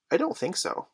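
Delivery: put-on high-pitched little boy's answer; young twin. A narrator's reading. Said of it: "said the first twin".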